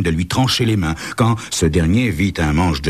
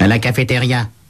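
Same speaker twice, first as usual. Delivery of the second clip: short, curt, dry delivery, pitched up; 5 semitones higher than usual. Asked where someone is, the accountant at the front desk answers curtly. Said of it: "répond-elle sèchement".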